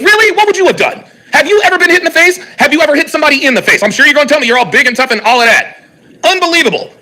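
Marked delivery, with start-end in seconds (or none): 0.0-4.7 heated rant. Real, not acted. Ranting at chat critics.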